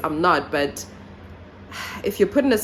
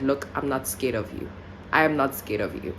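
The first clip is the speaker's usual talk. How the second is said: lower, firm voice, mildly put on; more authoritative; 3 semitones lower, 4 dB quieter than usual. Letting the intruder know she isn't scared, retold authoritative voice. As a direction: play it firm and unafraid, kept low. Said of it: "tried to make my voice more authoritative".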